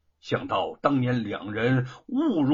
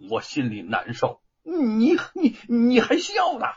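resentful; 7 semitones higher, 4 dB louder than usual. Acted. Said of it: "姚老大愤愤地看着他".

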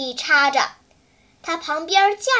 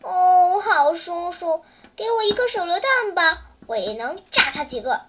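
pleading. Acted. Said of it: "央求说".

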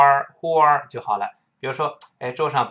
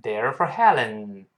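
model answer; 2 semitones lower, slower than usual. Shown as a demonstration. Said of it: "直接说".

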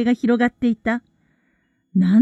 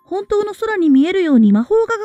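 put-on higher young schoolgirl voice; know-it-all girl voice; 5 semitones higher than usual. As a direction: explain it like an eager know-it-all. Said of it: "ハーマイオニーがそういうのが聞こえた".

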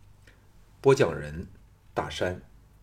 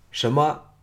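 higher, startled question; startled outcry; 4 semitones higher, 3 dB louder than usual. A narrator's reading. Man hearing she is leaving, startled. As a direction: blurt it out in surprise. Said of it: "项少龙失声说".

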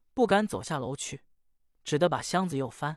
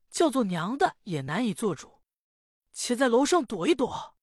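worried mother; 3 semitones higher than usual. Acted. Mother counsels daughter.

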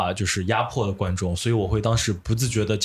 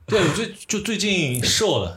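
放慢, 笑着说出来; 忍着笑回答; 边笑边说; 7 semitones higher than usual. Real, not acted. 被调侃后笑着回答. (笑着慢慢说)

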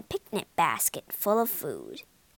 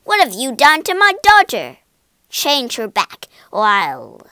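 angry yelling; 10 dB louder than usual. A narrator's reading. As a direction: demand it furiously, dropping into a threat. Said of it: "he yelled".

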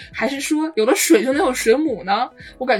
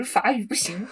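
normal talking voice

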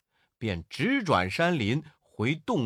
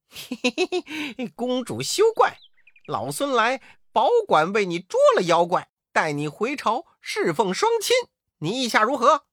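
high, fawning chuckle then soothing words; ingratiating laugh; 8 semitones higher, 4 dB louder than usual. A narrator's reading. Wukong smoothing things over with the princess, fawning laugh. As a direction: laugh apologetically to win her over. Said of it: "悟空陪笑说".

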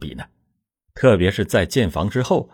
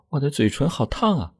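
higher, softer, seductive woman's voice; tender and alluring; 6 semitones higher, 4 dB quieter than usual. A narrator's reading. Xiulan lures her lover, soft and seductive. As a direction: draw him in gently. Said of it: "含情脉脉地".

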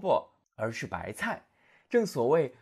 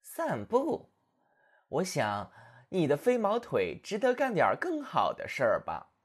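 sneering; 3 semitones higher than usual. Acted. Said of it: "野兔冷笑道".

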